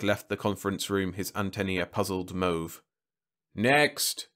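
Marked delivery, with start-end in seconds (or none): 3.5-4.3 pontifical. A narrator's reading. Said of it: "Starzer said pontifically".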